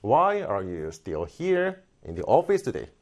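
"Why are you still here in the office today?" slowly, WHY stressed, function words faded; slow it down, fading in the and the rest; slow stressed demo. Shown as a demonstration. Teacher modelling the natural stress pattern slowly. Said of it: "이런 거 안 들리잖아요".

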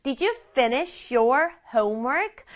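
slow, careful "Did you" run together as didju; model pronunciation. Shown as a demonstration. Teacher modelling the mother's question, slow clear pronunciation. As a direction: say the whole question slowly, every word clearly sounded. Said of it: "이렇게 발음한다".

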